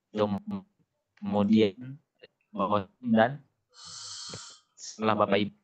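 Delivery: choppy audio cutting in and out; words breaking up over a bad connection; glitching robot. Real, not acted. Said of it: "suaranya putus-putus".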